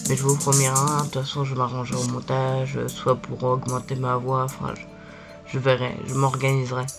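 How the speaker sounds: hoarse sick voice from angina; talking through a sore throat; swollen tonsils voice. Real, not acted. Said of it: "je suis malade, j'ai une angine".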